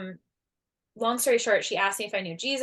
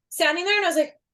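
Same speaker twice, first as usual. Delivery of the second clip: higher, louder stunned question; stunned disbelief; 9 semitones higher, 7 dB louder, faster than usual. Retold or imitated. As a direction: relive the shock of seeing the flash. Stunned by golden flash.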